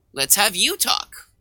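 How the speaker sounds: usual speaking voice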